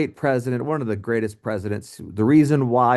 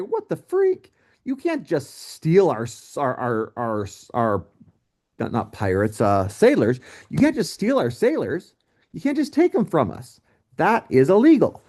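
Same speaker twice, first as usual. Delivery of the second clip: indignant outburst. Retold or imitated. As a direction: play America as a scandalised friend. America voiced, outraged at impressment.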